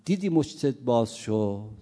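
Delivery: loud accusing shout at the suitor; girl's cry. Acted. Girl shouting at the man caught looking away, loud accusation. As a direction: call out the liar, loud and sharp. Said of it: "دختر فریادش بلند شد".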